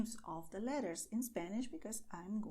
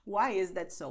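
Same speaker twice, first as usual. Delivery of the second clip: surprised learner; 3 semitones lower, 5 dB louder than usual. Retold or imitated. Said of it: "you will see".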